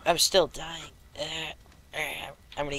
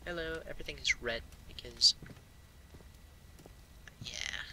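whisper; 5 dB quieter than usual. Real, not acted. Whispering in red-tinted room.

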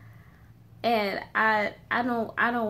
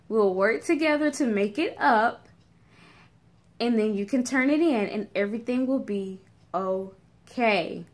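reassuring teacher. Retold or imitated. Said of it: "like, just stop 'em".

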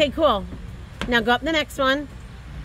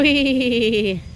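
long drawn-out "wee"; playful whee; 2 semitones lower than usual. Real, not acted. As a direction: draw out a playground whee. Cheering child on swing at playground.

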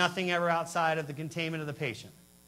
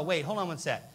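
retold outrage; 4 semitones higher than usual.

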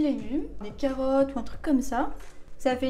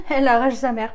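loud burst after a laugh; spicy-shock exclamation; 9 dB louder than usual. Real, not acted. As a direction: exclaim at a fierce kick of spice. Reacting to a very spicy sauce. (exclamation, la bouche en feu)

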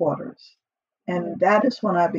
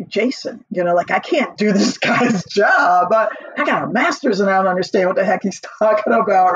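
laughing disbelief; 4 dB louder than usual. Retold or imitated. Laughing complaint about the job.

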